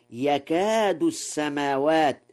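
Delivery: يكاد begun with a y sound; masculine ya. Shown as a demonstration. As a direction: say يكاد as yakaadu. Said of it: "بالياء على التذكير".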